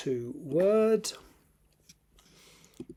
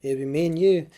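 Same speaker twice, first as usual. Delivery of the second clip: retaken in a Scottish accent, higher and louder; 4 semitones higher, 5 dB louder than usual. Shown as a demonstration. Mackenzie tells Claire it would be them both, in a Scottish accent. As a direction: give it more Scottish. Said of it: "offensive Scottish accent".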